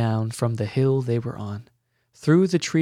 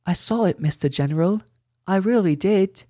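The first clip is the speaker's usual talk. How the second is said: put-on earnest boy; 7 semitones higher than usual. A narrator's reading. Billy insisting to Glint.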